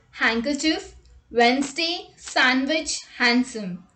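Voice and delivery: "Handkerchief" said hang-ker-chif, "Wednesday" as wenz-day; no D in "sandwich" or "handsome"; teacher demo of common silent-D words. Shown as a demonstration. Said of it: "D is not pronounced in the following common words".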